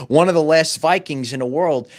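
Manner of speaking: laugh, then call it out with delight; amused exclamation through a laugh. Real, not acted. Laughing recalling the Viking.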